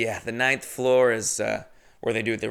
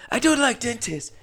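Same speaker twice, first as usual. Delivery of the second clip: callback to the juror's accent impression; imitating the Asian guy; 12 semitones higher than usual. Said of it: "I'm just gonna do his voice".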